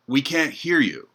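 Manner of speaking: a workers' shout, half-hearted; mock shout. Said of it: "someone shouted out".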